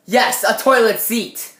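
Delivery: slow, loud mock insistence; loud emphatic answer. Teen offering a weapon to a friend, loud mock-emphatic answer. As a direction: punch it out slowly and loudly.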